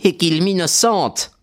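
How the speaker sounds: weak, rueful smile. A narrator's reading. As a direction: add it slowly through a poor little smile. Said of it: "ajouta Murdoch avec un pauvre sourire".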